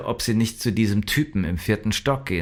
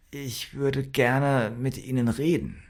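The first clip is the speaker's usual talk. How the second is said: higher, hesitant voice; a timid request, lightly stammered and pitched up; unsure stammer; 5 semitones higher than usual. A narrator's reading. Sister facing the profiler at his door, unsure. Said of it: "stammelte sie unsicher vor sich hin".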